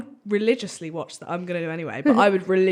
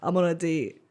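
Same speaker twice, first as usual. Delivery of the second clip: lower, slower, softer blokey voice; a hint of a swaggering lad; mumbled laddish imitation; lightly voiced tough guy; 6 semitones lower, 8 dB quieter, slower than usual. Imitating bald tattooed guy.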